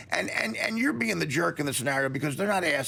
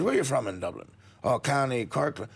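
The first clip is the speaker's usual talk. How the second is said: put-on light hokey Irish accent; lame Irish brogue. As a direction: pub small talk in a mock Irish brogue. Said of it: "do a lame brogue too here".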